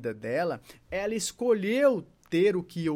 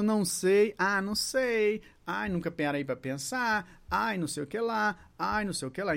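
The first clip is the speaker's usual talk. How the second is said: indecisive intonation; 3 semitones higher than usual. Shown as a demonstration. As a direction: stall and stretch each evasive answer. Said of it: "a entonação de uma pessoa indecisa".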